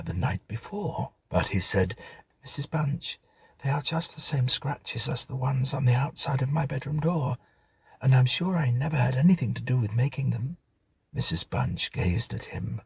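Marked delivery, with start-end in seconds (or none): 2.4-10.6 lightly voiced earnest boy, higher; a young boy protesting his innocence, a little hurried; a boy's voice. Stephen tells Mrs Bunch about the scratches, lightly voiced boy.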